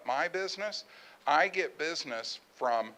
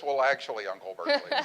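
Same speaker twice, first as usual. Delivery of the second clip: mock subtitle, laughing; faster than usual. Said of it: "we were gonna subtitle this".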